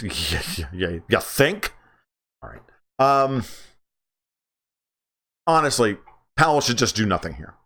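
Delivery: normal talking voice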